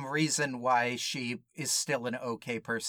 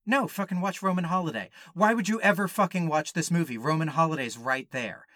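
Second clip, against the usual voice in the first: exasperated mock rant, rising; escalating comedy rant; 3 semitones higher than usual. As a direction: rant it with comic outrage. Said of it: "and go".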